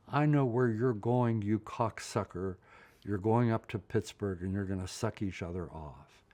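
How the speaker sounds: mock angry call, strongest at the start; mother's angry outburst. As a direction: imitate a mother calling out an accusation. Retold mother's outburst from the porch.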